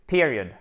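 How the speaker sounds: "period" stressed at the front, dropping away; stressed first syllable. Shown as a demonstration. Teacher repeats the English word for learners, first-syllable stress. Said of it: "Accent tonique sur la première syllabe".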